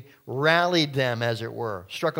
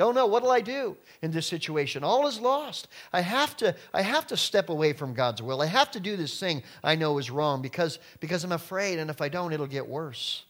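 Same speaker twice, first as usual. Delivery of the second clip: mock panic; 3 semitones higher than usual. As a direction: act out a frightened believer caving in. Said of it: "He wants us to be afraid".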